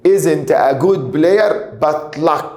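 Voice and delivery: very slow, word by word; slow reading. Shown as a demonstration. Teacher dictating an exam sentence to students, very slowly.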